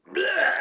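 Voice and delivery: high sudden retching noise; mock retching. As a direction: act out throwing up. Vomiting in the airplane sink.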